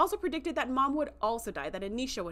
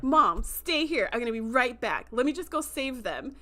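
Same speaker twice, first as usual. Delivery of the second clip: urgent reassurance; 3 semitones higher, 3 dB louder than usual. Retold or imitated. Son urgently instructs his mother.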